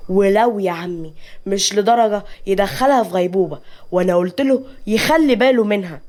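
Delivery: understated irritation; mildly acted anger; agitated anger. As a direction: protest with a touch of temper. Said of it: "سيف بعصبية".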